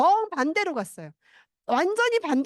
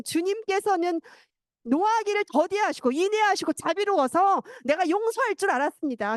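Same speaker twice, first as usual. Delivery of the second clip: mock angry complaint; 5 semitones higher than usual. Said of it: "막 성을 내요".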